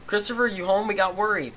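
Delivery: sweet worried friend calling; girl's voice. Acted.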